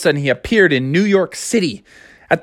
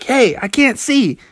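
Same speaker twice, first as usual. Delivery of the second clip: high, slow complaint; blinded bull; 8 semitones higher than usual. Acted. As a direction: whine that everything went dark.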